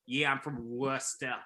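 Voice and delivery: put-on Massachusetts accent with Worcester as "Wuh-steh". Friend imitating bandmate's hometown talk, Massachusetts accent. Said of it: "the most Massachusetts thing possible".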